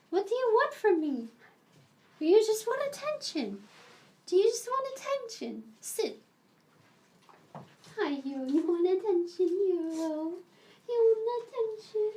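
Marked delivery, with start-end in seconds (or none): 0.1-5.6 much higher sing-song question; pet voice. Real, not acted. Asking the pet. 10.9-12.1 high, sing-song question; pet voice. Real, not acted. Asking the dog.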